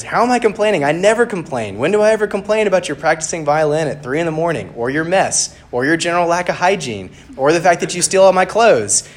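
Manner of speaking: high, loud, indignant tirade; bickering. Acted. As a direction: reel off grievances in rising exasperation. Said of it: "they're bickering with each other".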